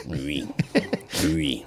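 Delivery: lightly voiced pig oinks; pig squeal. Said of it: "Рюкнула свинья".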